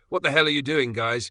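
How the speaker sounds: growl. A narrator's reading. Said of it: "Qin Shi growls".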